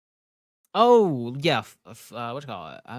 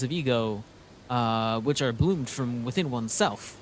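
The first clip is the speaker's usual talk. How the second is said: lightly voiced pompous knight; 2 semitones higher, 3 dB louder than usual. Voices Don Quixote lecturing.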